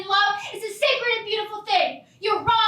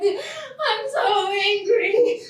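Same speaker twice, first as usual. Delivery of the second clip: angry sobbing; 2 semitones higher, slower than usual. Acted. Daughter alone after the scolding.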